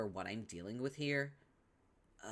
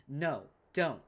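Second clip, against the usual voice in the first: alarmed plea; 4 semitones higher, 7 dB louder than usual. Acted. Urgent plea.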